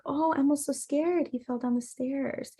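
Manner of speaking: soft, gently voiced sympathy; retold calm, nurturing. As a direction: soothe a small child through play. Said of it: "trying to be as calm and nurturing".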